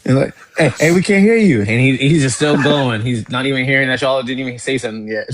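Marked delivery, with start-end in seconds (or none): 0.6-1.6 higher-pitched retold call to get attention; mock calling to someone who can't hear. Calling out to muted friend.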